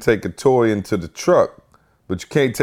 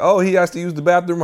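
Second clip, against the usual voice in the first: asking teacher; 9 semitones higher than usual. Retold or imitated. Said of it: "The teachers are like".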